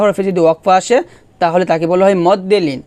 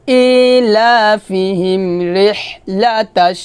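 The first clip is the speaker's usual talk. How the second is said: slow recitation; much slower than usual. Shown as a demonstration. Recites the phrase.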